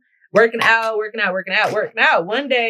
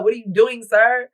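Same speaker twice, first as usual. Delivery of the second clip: rising, louder "What are you doing?"; pissy disbelief; 4 semitones higher, 3 dB louder than usual. Retold or imitated. Retelling her annoyed reaction to the workouts, in pissy disbelief. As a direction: demand it, offended and exasperated. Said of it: "I was so pissy".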